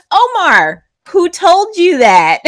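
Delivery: high, loud, laughing tease. Real, not acted. Teacher laughing while teasing a student about his political sentence. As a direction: tease him through laughter.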